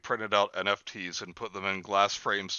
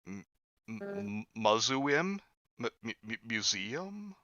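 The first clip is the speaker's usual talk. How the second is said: stammering soft guesses at museum; mock struggling for a word; 2 semitones lower, 7 dB quieter, slower than usual. A friend pretending to recall a word, halting guesses. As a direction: fake groping for the word. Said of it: "I'm thinking of a name".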